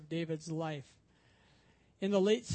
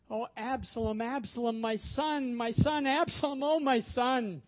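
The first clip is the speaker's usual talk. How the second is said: grieving cry; 4 semitones higher, 3 dB louder than usual. Retold or imitated. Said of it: "as David's cry rises out".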